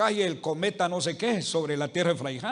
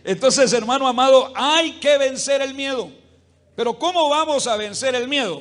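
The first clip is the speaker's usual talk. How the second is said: fervent preaching; 3 semitones higher, 5 dB louder than usual. Real, not acted. Preacher rises to full force.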